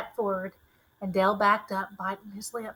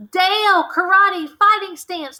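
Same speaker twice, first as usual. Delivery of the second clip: loud, higher urgent call; shout; 9 semitones higher, 9 dB louder than usual. A narrator's reading. Girl shouts to Dale mid-fight, loud and high. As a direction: yell the orders to her friend. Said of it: "I shouted".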